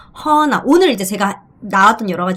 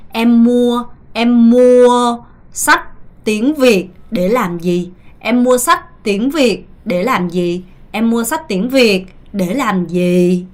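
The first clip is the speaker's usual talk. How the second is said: slow model sentence; much slower than usual. Shown as a demonstration.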